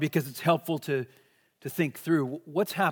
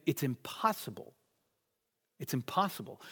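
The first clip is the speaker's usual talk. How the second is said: quiet worried echo; 3 semitones lower, 9 dB quieter than usual. Retold or imitated. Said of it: "Peter attaching his thoughts to the statement".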